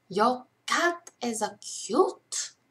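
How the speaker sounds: bad, weak, clumsy Russian accent. Trying out accents, the speaker says a sentence in a bad Russian accent. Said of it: "That's not a good accent".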